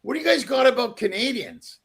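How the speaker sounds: retold indignant challenge, pitch jumping up at the end; fed up. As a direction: confront them, mildly exasperated. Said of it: "I finally got fed up".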